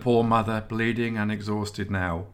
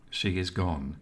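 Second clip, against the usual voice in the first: solemn intoning; 4 dB quieter than usual. A narrator's reading. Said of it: "intoned the eldest of the three".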